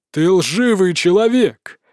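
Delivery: slow growled accusation. Acted. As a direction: growl it out, slowly. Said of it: "прорычал зверь сферы". (медленный рык)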